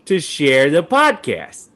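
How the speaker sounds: slow, sing-song teacher talk; preschool teacher. Acted. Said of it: "Sound like a preschool teacher".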